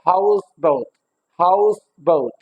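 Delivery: "हाउस बाउट" with हाउस prominent, बाउट falling; stress on HOUSE. Shown as a demonstration. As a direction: lean on हाउस, lighter on बाउट. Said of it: "house would be more prominent".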